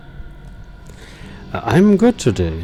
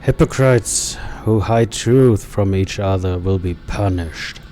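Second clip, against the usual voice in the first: lower, grave fanatic preaching; lightly voiced zealot villain; 3 semitones lower than usual. Streamer voicing the masked killer's creed, lightly lower. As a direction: condemn the hypocrites with cold conviction.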